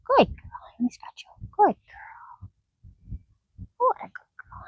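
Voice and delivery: high, hushed praise for the donkey; soothing whisper. Real, not acted. Trainer soothing her nervous donkey, high whisper. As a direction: whisper it gently to calm a nervous animal.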